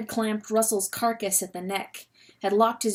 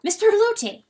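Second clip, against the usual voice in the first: high raised call over the howling wind; 8 semitones higher, 3 dB louder than usual. Acted. Calling to Perlote through the wind, raised shout. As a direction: shout to be heard through the gale.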